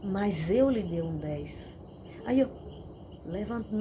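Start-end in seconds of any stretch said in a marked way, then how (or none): 0.0-1.7 slow, weighty reproof; measured, stern verdict; serious authority. Retold or imitated. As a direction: pronounce it slowly and firmly, like a correcting father. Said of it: "ele falou sério".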